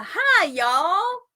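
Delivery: loud, high hearty hello; cheery greeting. A narrator's reading. Paul climbing out of the grave, calling loudly and high. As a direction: burst out of the ground with a greeting.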